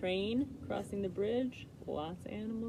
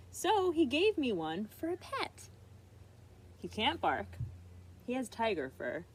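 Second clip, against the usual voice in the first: put-on excited child pleading; 4 semitones higher than usual. Arnold pleading.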